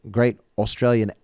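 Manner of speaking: a light attempt at an Australian accent; a hint of a self-conscious Australian accent. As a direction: try on an Australian accent, half-joking. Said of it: "trying the voice".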